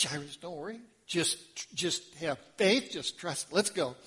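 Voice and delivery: calm a frightened father; reassuring. Acted. Jesus reassuring Jairus.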